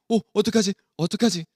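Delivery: a touch of alarm, acting out a scared crowd; frightened. Israelites fretting at a huge approaching army, mildly frightened. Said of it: "겁이 났어요".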